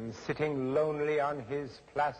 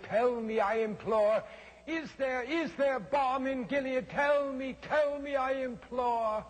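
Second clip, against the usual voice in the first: higher, desperate pleading; imploring; 7 semitones higher than usual. A narrator's reading. Narrator begs the raven for hope, high and desperate. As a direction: beg for an answer.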